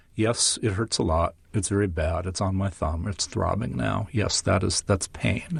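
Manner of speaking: very flat, emotionless deadpan monotone. Showing how someone might react to a hammer hitting a thumb: very flat voice. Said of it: "you would say in a very flat voice".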